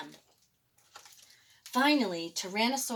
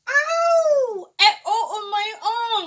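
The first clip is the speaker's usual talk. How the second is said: high loud cry of pain; laughing, hammed-up pain cry; pained yelp; 12 semitones higher, 10 dB louder, much slower than usual. A narrator's reading. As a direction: yelp like your tongue is caught. T. rex's tongue is grabbed.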